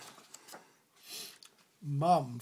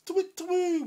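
high hooting owl call; 13 semitones higher, 4 dB louder than usual. Acted. Owl in the garden at night, high hooting. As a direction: hoot it like an owl. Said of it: "went the owl".

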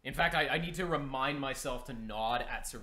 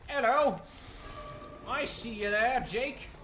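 much higher, sing-song taunting of the survivor; teasing high voice; 4 dB louder, slower than usual. Pretend. Killer streamer taunting survivor Jake, high sing-song teasing. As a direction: coo at him like a pet you're hunting. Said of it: "All right, I'll stop".

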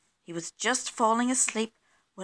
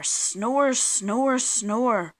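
storybook snoring; 3 semitones higher, 4 dB louder, much slower than usual. A narrator's reading. Missus Bear's snores grow louder.

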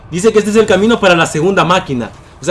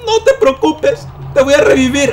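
mock reassurance; 6 semitones higher than usual. Player promising to revive his son, squeaky mock reassurance. Repeats reassurance in put-on high voice.

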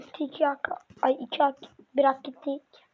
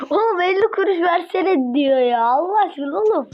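loud laughing outcry; 3 semitones higher, 6 dB louder than usual. Real, not acted. Reacting loudly to the video.

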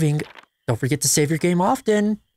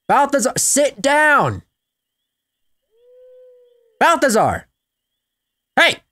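slow, loud, higher call to sit; drawn-out louder sit order; drawn-out command; 8 semitones higher, 4 dB louder, slower than usual. Shown as a demonstration. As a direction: stretch the command out firmly. Commanding the dog, escalating.

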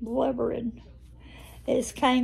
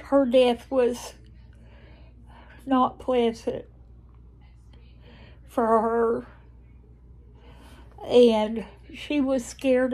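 tearful. Real, not acted. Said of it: "I met my quota for blubbering today".

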